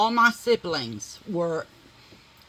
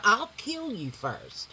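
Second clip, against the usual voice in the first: louder threat; 3 dB quieter, slower than usual. Shown as a demonstration. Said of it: "I wanna take that down just a little".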